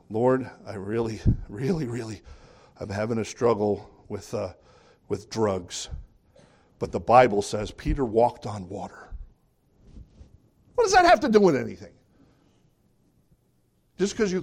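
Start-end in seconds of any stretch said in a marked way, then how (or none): 0.1-9.1 lower, lightly voiced struggling believer; mock prayer. Believer praying about drugs, mildly mocked. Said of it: "mock believer praying". 10.8-11.9 fast, louder, higher exasperated retort. Acted. Preacher scoffing at a misused verse, fast and loud. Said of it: "preacher retorts".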